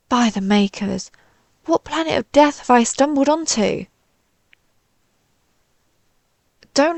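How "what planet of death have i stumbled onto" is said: dismayed alarm. Acted. Invader now terrified of the human.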